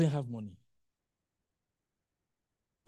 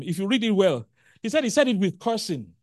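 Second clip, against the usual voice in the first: loud; 4 semitones higher, 9 dB louder than usual. Acted. Preacher building intensity.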